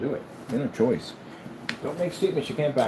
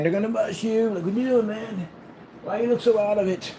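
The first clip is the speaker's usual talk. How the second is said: high-pitched teasing to a pet; playful warning; 7 semitones higher than usual. Real, not acted. Owner warning pet about sniffer dogs, playful warning.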